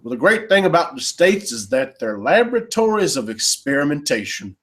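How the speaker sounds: lightly put-on Texas accent; Rick Perry Texas accent. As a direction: imitate a Texas politician's accent. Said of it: "probably fake Texas accent".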